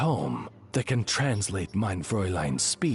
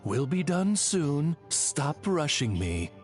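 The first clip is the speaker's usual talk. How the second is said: slow, curt translation; cold; 6 semitones higher, slower than usual. Acted. Oz translates his lady's speech for the traveler, coldly. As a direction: coldly relay a brush-off. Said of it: "that sounded a lot colder post-translation".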